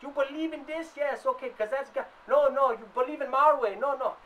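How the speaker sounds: lightly voiced preacher pushing his faith; a hint of a pushy missionary. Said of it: "you had your African tribes going".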